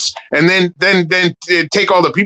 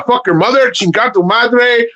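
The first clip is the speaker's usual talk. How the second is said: Spanish accent; 5 semitones higher than usual. Shown as a demonstration. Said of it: "I just talk with the accent".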